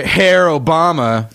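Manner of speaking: mock German "Herr" sounding like Hitler. A podcast host jokes about the president, mock German. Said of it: "I threw a German thing in there".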